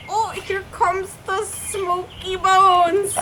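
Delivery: Bertolt's quip. Retold or imitated. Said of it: "He's like".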